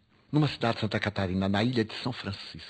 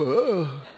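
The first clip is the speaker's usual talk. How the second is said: mild retold yell; 5 semitones higher, 4 dB louder than usual. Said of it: "E eu dei aquele berro".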